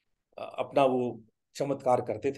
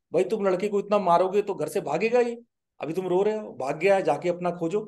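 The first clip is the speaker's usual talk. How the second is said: mild reproach; 4 semitones higher than usual. Retold or imitated. Saint scolds a pleading father.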